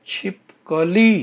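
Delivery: "छिपकली" slowly, last syllable held long; syllable-by-syllable pronunciation. Shown as a demonstration. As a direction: stretch out "छिपकली" for the class. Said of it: "उच्चारण है बच्चों".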